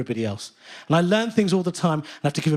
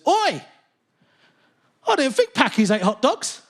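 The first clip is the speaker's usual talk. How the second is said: jeering heckler; 7 semitones higher, slower than usual. Retold or imitated. Racist heckler at football.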